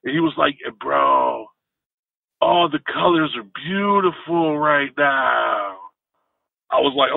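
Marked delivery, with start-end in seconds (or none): 0.8-5.8 California surfer. Retold or imitated. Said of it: "California-ish surfer guy".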